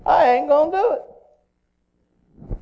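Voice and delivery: high, loud mock defiance, drawn out at the end; flat-out refusal. Little boy flatly refusing his father, mock defiance. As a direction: dig in and refuse like a stubborn child. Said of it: "he just flat out said".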